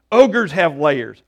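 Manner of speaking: slow, loud, emphatic explanation; Shrek explaining. Acted. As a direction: spell it out slowly for a slow listener. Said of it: "And, and Shrek says".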